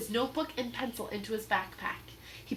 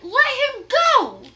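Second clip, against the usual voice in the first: high, loud, slow furious demand; 14 dB louder, slower than usual. Acted. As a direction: shout him down. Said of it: "she said".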